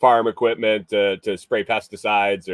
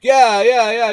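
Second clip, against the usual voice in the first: quoting the guy; 13 semitones higher, 9 dB louder than usual. Retold or imitated. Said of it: "He's like".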